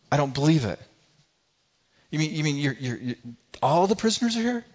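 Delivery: can't believe his ears; stammering disbelief. Acted. Jailer stunned to find the prisoners still there, stammering. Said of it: "this guy's mind".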